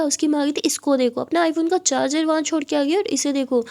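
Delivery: a hint of an angry mother berating her daughter; scolding mother. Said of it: "बहुत ज़्यादा चिल्ला रही थी".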